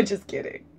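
soft whisper, taking it back; a playful whispered just kidding; whispered aside. Real, not acted. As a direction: whisper it with a grin. Jokey aside after laughing.

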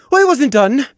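high, loud cut-in; loud, angry interruption; sharp interruption. A narrator's reading. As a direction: cut him off hard. Interrupts her brother sharply.

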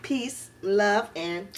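upbeat, rehearsed sign-off to viewers; vlog outro. Acted.

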